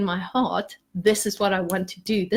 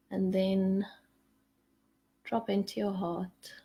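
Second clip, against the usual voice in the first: guided meditation; 7 dB quieter than usual. Acted. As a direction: gently lead the group down into their hearts. Leads a meditation.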